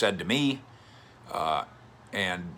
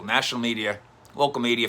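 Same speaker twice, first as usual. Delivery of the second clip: usual speaking voice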